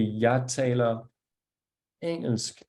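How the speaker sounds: "Jeg taler engelsk" spoken slowly, the G in "engelsk" silent; slow Danish, drop the G in "engelsk"; slow Danish demo. Shown as a demonstration. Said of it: "which would be".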